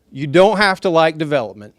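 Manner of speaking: loud but friendly, smiling; with a smile. Real, not acted. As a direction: say it smiling to soften it. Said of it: "I'll say it with a smile".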